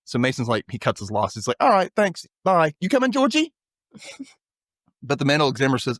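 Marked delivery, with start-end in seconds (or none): 1.6-3.5 breezy exit. Retold or imitated. Voicing Mason's hasty exit.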